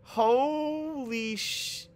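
stunned, stretch it out; shocked exclamation. Real, not acted. Sudden shock in game.

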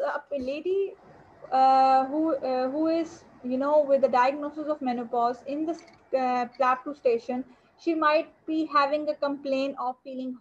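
loud, projecting lecture voice; to someone hard of hearing. Real, not acted. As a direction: speak up so the back row hears. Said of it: "I'm speaking at the top of my voice".

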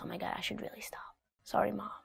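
hushed, chastened whisper; scared whisper. Shown as a demonstration. Child scolded by mom, apologizing in a frightened whisper. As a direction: whisper it like a caught kid. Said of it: "you know they mean business".

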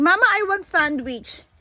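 put-on high, childish pet voice; silly dumb pet voice. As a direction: voice the dog like a whiny kid. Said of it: "Sabi ng aso ko". (boses ng aso na parang bata)

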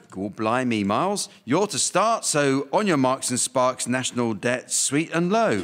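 a hint of a Cockney host; lightly put-on Cockney accent; mock Cockney. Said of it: "I shall be playing the part of a Cockney".

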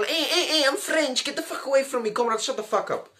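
lightly voiced sniveling Frenchman; whiny Frenchman. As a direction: play a scared, whiny France. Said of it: "France was a little pussy hole".

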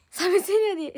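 high, loud excited quote. Retold or imitated. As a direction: belt out the quote. Quoting someone excitedly.

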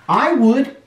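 high, creaking little voice; creaky coral. A narrator's reading. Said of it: "creaked Crusty Coral".

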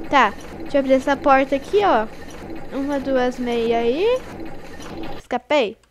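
ordinary delivery

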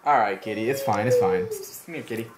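calling a cat. Real, not acted. Calming the cat.

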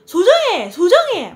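loud, high sing-song call; calling a name. Shown as a demonstration. Showing how kids called her name, loud call. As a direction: shout her name across a playground. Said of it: "막 이렇게 부르거든요".

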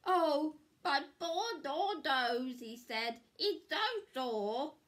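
high, pained moaning; whiny hurt husband.

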